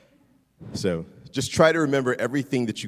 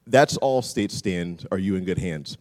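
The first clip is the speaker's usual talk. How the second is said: Dennis Haysbert impression; 2 semitones lower, 6 dB louder than usual. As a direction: stretch the tagline out like an ad closer. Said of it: "He's got this deep baritone voice".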